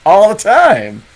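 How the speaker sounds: high, loud goblin squawk. Pretend. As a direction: threaten them playfully with the goblin voice. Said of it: "I could just do the goblin".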